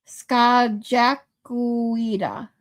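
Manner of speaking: Skajakuida very slow, syllable by syllable; careful sounding out. Shown as a demonstration. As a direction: sound out Skajakuida slowly, skah-zhah-koo-ee-dah. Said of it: "put the emphasis on the right part".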